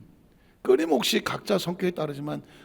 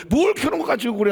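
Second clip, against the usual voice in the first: high, irritated brush-off; dismissive retort; 7 semitones higher than usual. Acted. Person denying an angry partner's feelings, dismissive. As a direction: deny their feeling with a pitched-up scold. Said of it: "그 화를 부인해버리면".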